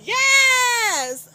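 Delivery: high, loud cheer; excited yes. Real, not acted. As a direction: burst out happily. Excited exclamation.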